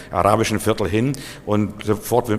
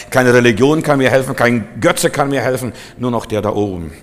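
rising preacher cry; 3 semitones higher, 5 dB louder than usual. Real, not acted. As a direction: cry it out to the congregation. Predigt, steigernder Ausruf. (lauter, höherer Predigtausruf)

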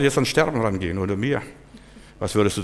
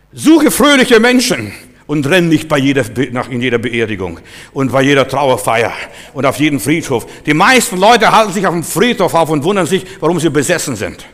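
louder, driving sermon delivery; emphatic preaching; 2 semitones higher, 6 dB louder than usual. Real, not acted. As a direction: preach it with rising force. Preaches with force. (eindringlich gepredigt)

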